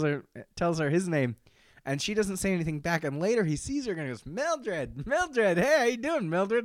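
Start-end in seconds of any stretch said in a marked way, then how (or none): 4.3-6.6 mock high, sing-out hello; calling out greeting. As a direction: imitate hailing someone by name.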